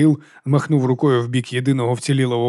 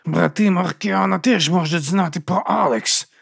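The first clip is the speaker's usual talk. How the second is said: through teeth; 6 semitones higher, slower than usual. A narrator's reading. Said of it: "крізь зуби".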